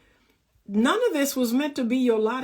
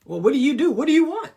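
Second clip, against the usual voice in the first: interested flirt; 4 semitones higher, 4 dB louder, faster than usual. Pretend. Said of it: "I'm like".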